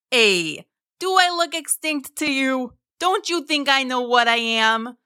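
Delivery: chatty mosasaur, indignantly pushing back; high, casual sea-creature voice. A narrator's reading. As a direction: play a talking monster mildly put out. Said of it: "Mo responded".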